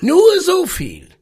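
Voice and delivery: put-on rough, booming old captain; growling sea captain. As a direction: growl it from the chair. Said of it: "Seine knurrige Stimme".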